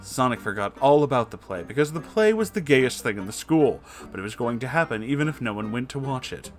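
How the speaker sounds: usual speaking voice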